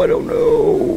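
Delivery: tiny high-pitched uncertainty, drawn out. Pretend. Gamer unsure of the code, very high voice. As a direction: squeak it slowly, high up.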